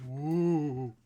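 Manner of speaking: loud, high Woo!; excited whoop. Real, not acted. Streamer turns lights off, whooping loudly with excitement.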